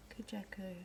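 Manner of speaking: Kujaku said koo-ZHA-koo; alternative pronunciation. Shown as a demonstration. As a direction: say Kujaku with an open middle "zha". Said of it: "whichever way you wanna say it".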